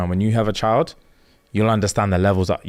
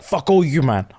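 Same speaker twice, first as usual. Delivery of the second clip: higher-pitched acted defiance; mock tirade, pitched up; defiant outburst; 4 semitones higher than usual. Major to all of them, defiant.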